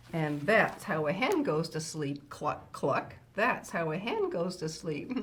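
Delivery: measured, lilting picture-book reading; reading to children. Acted. Grandma Kitty reading a farm bedtime book to children, storytime voice. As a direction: read a rhyming bedtime book to little listeners.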